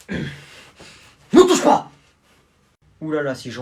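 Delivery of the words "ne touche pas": much higher, very slow drawn-out cry; slow high protest. Acted. Someone warding off the grab, high and very slow. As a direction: stretch it out, warding off.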